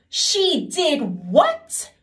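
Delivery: high, loud, very slow wailing king; crying king. Acted. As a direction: wail it like a weeping king. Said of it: "cried the king".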